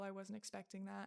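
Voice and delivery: ordinary talk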